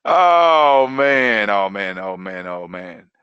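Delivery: winding-down exclamation. Real, not acted. Coach recovering from laughing, fading oh man. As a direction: start big, sink to a low murmur. Reacting after laughing at own tip.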